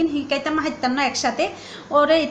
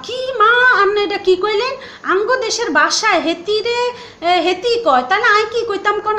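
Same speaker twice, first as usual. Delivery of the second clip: surprised retort; 4 semitones higher than usual. Retold or imitated. To her mother, a surprised indignant reply. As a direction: protest in disbelief at the accusation. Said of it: "আয় তো অবাক".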